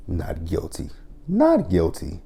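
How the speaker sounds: mock disbelief. Mocking the not guilty plea.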